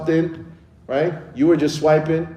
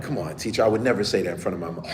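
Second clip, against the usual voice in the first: put-on protesting kid; 5 semitones lower, 7 dB quieter, faster than usual. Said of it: "they'd be like".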